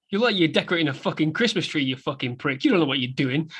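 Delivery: fast, sneering insult; Tommy mocking. Co-host quoting Tommy teasing Henry, fast sneer. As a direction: rattle off the insult. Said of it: "hear Tommy in the background go".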